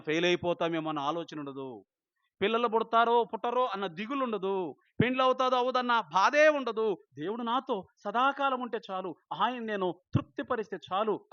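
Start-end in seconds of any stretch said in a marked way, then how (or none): 2.4-11.3 much higher and louder fiery preaching; preaching at full force. Acted. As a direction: challenge the congregation at the top of your voice. Preacher builds again.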